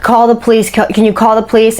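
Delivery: a touch of panic, quickening at the end; retold frantic plea. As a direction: imitate someone begging for help, lightly. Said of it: "she's hysterical. She's frantic. She's crying".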